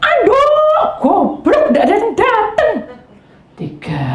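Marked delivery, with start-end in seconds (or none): 0.0-2.7 high, loud shouting for towel; mock yell. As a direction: bellow from the bathroom. Husband yelling for towel.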